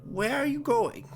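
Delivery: soft, creepy villain, rising to a playful lilt; sadistic captor, disgusted. Acted. Captor about to cut off arms, soft creepy taunting. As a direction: toy softly with your victim.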